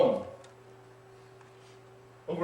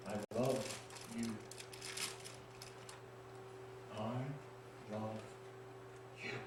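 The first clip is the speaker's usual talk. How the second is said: gentle voice; 6 semitones lower, 15 dB quieter than usual. Acted. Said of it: "I heard this voice saying".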